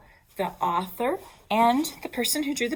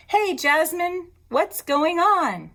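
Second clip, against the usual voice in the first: schoolgirl greeting; 9 semitones higher, 6 dB louder, slower than usual. Acted. Teacher voices schoolgirl in book.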